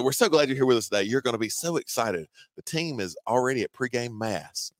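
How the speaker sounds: put-on Northern US voice, eager welcome; mock Northern accent. Recruiter telling visitors about pregame mass, mock Northern accent. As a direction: imitate an excited Northern host. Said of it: "trying to do my northern voice".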